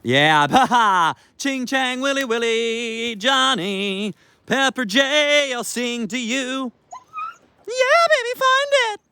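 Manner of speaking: very high, slow, sing-song dog babble; playful dog talk. Shown as a demonstration. Owner playing with the dog, high sing-song babble. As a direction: coo and play with the dog. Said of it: "That's how we play".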